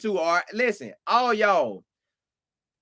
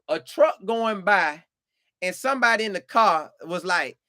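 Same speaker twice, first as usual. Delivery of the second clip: ordinary talk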